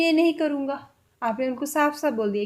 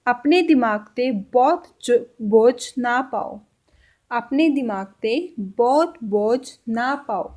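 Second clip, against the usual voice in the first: slow Punjabi demo; slower than usual. Shown as a demonstration. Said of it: "और इसको पंजाबी में कैसे बोलेंगे?".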